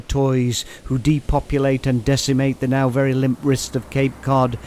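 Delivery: declaimed, measured poem reading; deliberate, emphatic verse delivery; poetry recitation. Acted. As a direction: recite it as a formal reading, relishing the words. Recites own poem as second reading.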